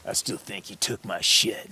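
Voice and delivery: slow, muttered accusation in a lightly put-on voice; sullen junkie. Junkie walking past the guide, slow sullen accusation. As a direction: drag it out with a resentful grumble. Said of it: "and he goes like this".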